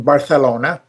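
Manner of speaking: Barcelona with a lisped th for the c; Castilian lisp. Shown as a demonstration. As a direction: say Barcelona as Barthelona, Spanish style. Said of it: "That's the way they say it".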